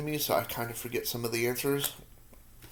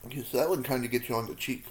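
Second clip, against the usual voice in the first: mouth full; faster than usual. Real, not acted. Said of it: "talking with my mouth full".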